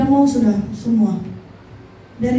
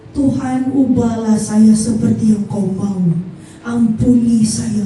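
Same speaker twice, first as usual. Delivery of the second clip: retold prayer; 2 semitones lower, slower than usual. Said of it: "saya bilang".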